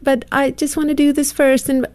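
put-on a picky kid whining about small things; whiny child voice. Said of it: "there is this whiny voice".

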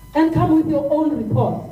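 getting emotional. Real, not acted. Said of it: "I got a bit emotional".

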